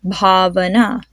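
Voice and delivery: "Bhavana" with a puff of air on the bh; aspirated "Bhavana". Shown as a demonstration. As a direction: model "Bhavana", breathing out on the first consonant. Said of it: "feel the puff of air".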